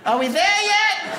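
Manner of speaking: put-on high, slow whine of a bored kid; a high, drawn-out child's whine; whiny kid. Kid whining in the car.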